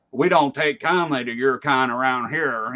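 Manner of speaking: lightly voiced hostile small-town local; a hint of a sneering bigot warning off outsiders; mock bigoted local. Host mocking the base: lightly put-on unfriendly local voice.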